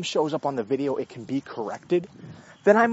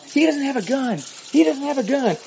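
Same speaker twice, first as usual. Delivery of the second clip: higher, louder mock yell; retold yell; 10 semitones higher, 5 dB louder than usual. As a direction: yell it out like the wife. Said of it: "she's yelling out".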